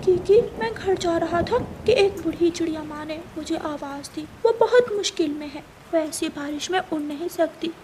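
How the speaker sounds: put-on hurried child pleading for an umbrella; lightly voiced little bird asking friend for help; young bird Kuku. Kuku explains to Kiki.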